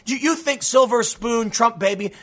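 mock outrage. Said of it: "you are gonna get widespread outrage".

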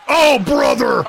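high, loud yelled oh brother; loud shout. Real, not acted. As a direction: yell it out in shock. Reacting to chokeslam.

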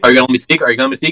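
a hint of exasperated teen; lightly voiced teen arguing back; angsty teen. Friend mimicking a teen fighting with his dad, mildly exasperated. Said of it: "an angsty teen fighting with his dad".

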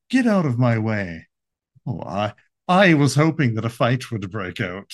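lightly put-on British polar bear; a hint of well-spoken British English; British accent. Polar bear spoiling for a fight, mild British accent. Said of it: "I pictured him with a British accent".

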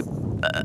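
short muffled real burp; brief burp that barely sounds like one; small burp. Real, not acted. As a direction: let out a little burp.

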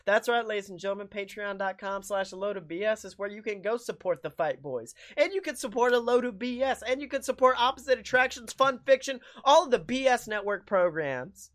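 fast, upbeat sponsor pitch; ad read. Acted. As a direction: sell it like a radio ad. Patreon ad read.

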